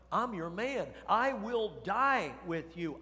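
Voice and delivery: slow, emphatic mock vow; overconfident pledge. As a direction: proclaim it grandly, dragging out the promise. Imitates Peter's overconfident pledge.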